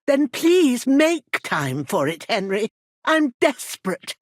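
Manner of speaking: desperate pleading. Acted. Worried mother begging Henry to make time, desperate.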